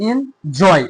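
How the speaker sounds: এনজয় slowly split, weight on জয়; stress on জয়. Shown as a demonstration. Teacher showing pupils the stressed part, stress on জয় in এনজয়. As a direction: say এনজয় in two parts, pressing জয়. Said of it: "জয়ের ক্ষেত্রে কিন্তু আমাদের stress".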